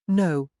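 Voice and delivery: sister's emphatic denial. A narrator's reading. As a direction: land it with conviction. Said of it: "she said emphatically".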